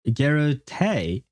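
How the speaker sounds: "Garrotay" as GARR-oh-TAY, drawn out slowly; slow, doubtful "Garrotay"; tentative pronunciation. Shown as a demonstration. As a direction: try out "Garrotay" with a long final TAY. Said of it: "Is it Garrotay or Garro".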